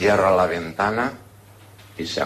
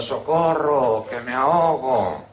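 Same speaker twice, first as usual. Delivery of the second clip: mock cry for help; 2 semitones higher, slower than usual. Drowning man calling to passers-by, mild mock yell. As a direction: cry out slowly, only half shouting. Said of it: "el tío chillaba".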